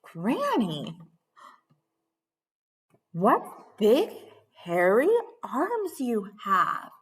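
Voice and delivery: slow, hushed whisper. Acted. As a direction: whisper it nervously. Red whispers again.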